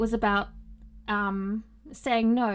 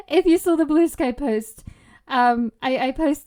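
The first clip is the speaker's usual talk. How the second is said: excited anime fan; 3 semitones higher, 7 dB louder than usual. Real, not acted. Excited talk after laugh.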